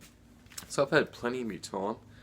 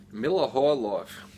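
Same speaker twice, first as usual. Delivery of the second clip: slow, booming anchorman announcement; a raised, drawn-out newsman read of the beer name; a light, hammed-up Ron Burgundy nod; Ron Burgundy impression; 4 semitones higher, 6 dB louder, slower than usual. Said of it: "I have to do my best, uh, Ron Burgundy impersonation".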